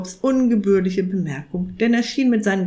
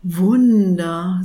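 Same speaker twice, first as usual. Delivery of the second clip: hushed awe on Wunder; reverent; 5 dB louder than usual. Acted. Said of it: "mit ehrfürchtiger Stimme".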